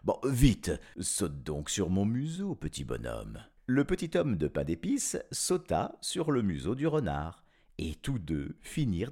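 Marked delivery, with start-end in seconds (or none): 0.0-3.4 fox exclaiming. Acted. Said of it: "le renard s'écria".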